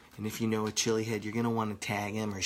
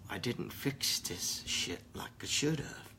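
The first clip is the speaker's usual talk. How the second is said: 1 whisper; 6 dB quieter than usual. Real, not acted. Confessing in whisper.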